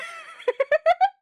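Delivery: high burst of laughter; real laughing burst. Real, not acted. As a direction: giggle out loud.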